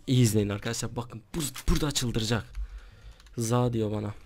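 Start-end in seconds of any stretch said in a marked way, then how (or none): 0.1-2.5 excited hype. Real, not acted. Hyping viewers before trolling.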